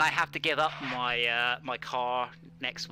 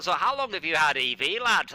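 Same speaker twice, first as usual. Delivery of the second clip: louder mock Yorkshire reporter asking; imitating a hearty Yorkshire local newsman; Yorkshire interviewer; 3 semitones higher, 6 dB louder than usual. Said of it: "they'd be like".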